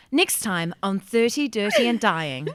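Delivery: slow show-teaser read; measured, mock announcer delivery; teaser announcement. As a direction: announce the next episode slowly. Announcing a teaser for next episode.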